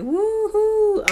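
high, loud imitated woohoo; imitated cheer. Vlogger imitating the family cheering, high loud woohoo. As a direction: cheer like the crowd at the end. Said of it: "everybody's like".

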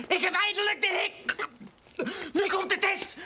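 talking with the hiccups; hiccuping between words. Real, not acted. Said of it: "ik heb de hik".

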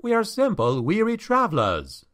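understated shout, pitched well up; protesting shout. A narrator's reading. Traveler telling the innkeeper they are harmless, mildly called out. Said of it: "Felix shouted".

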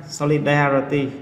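solidarity with the stress on DAR; stress on third syllable. Shown as a demonstration. Teacher showing students where the stress falls, stressed DAR in solidarity. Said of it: "Âm tiết số ba".

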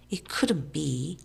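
slow, hushed disbelief; lightly whispered doubt. A narrator's reading. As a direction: half-whisper it slowly. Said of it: "whispered Tom".

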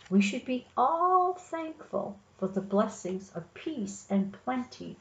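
storybook read-aloud, measured and projected; story narration. A narrator's reading. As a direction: read the picture book out to young children.

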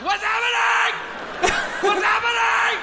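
very high, loud tearful wail; crying. Acted. Overwhelmed substitute in front of the class, hammed-up crying wail. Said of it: "Why are you crying so much".

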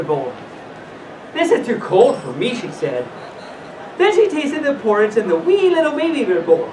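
put-on animated read-aloud to children; lilting storyteller with swooping pitch; storybook reading. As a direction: read it like a bedtime fairy tale.

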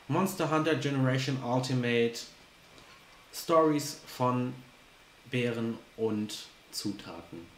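drawn-out title, word by word; slow title announcement. Shown as a demonstration. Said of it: "so nenne ich das". (langsam angesagter Titel)

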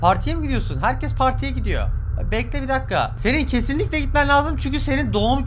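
high-pitched, excited cartoon character; game character voice. Reads game character's lines.

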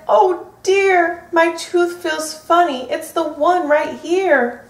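worried bear. Acted. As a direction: fret over the wobbly tooth. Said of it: "Bear frowned and he worried".

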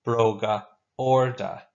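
slow, clear Irish word for the class; slow model word. Shown as a demonstration. Teacher modelling a new Irish word slowly. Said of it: "Now you say it after me".

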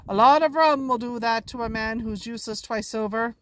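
sarcastic. Acted. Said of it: "Silver said sarcastically".

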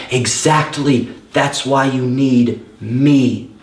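very slow, steady, reassuring reply; calm divine voice. Retold or imitated. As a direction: answer gently and unhurried. Voice of God in his head.

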